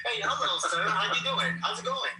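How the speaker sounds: mock white voice. Teasing Hackett about his white voice, prim and high mock politeness. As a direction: put on an overly proper white-guy greeting. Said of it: "My white voice is very good".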